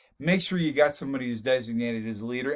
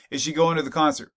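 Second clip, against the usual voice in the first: going lifted and held a touch longer than the other words; stress on going; 3 dB louder than usual. Shown as a demonstration. Teacher showing how stress shifts meaning, weight on going. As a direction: lean on going, as if doubting she'll go at all. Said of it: "So in terms of emphasis".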